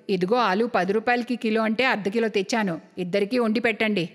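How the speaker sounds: low voice, startled stammer into excuses; stingy mother-in-law. Acted. (తగ్గు స్వరంలో పిసినారి అత్తగారు)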